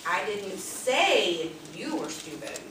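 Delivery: "say" pressed, slow and falling; stress on SAY. Shown as a demonstration. Trainer showing stress on "say". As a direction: lean on "say" and let it fall. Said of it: "it's where you put that emphasis on that word".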